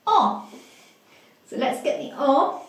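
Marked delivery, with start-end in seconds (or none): 0.1-0.5 high squeaky puppet voice for the reply. Pretend. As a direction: answer in a high little puppet voice. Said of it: "P C Jim said".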